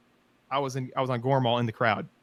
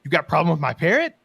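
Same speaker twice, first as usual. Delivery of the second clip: louder, cocky troll taunt; grinning troll; 3 semitones higher, 5 dB louder than usual. Retold or imitated. Gormal taunting the crowd, loud grinning troll. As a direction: taunt them with a grin. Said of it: "Gormal's grinning like".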